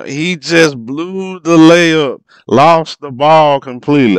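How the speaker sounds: high, loud and slowed disbelief; exasperated outcry. Real, not acted. Fan watching a blown layup, loud drawn-out dismay. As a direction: stretch it out in dismay.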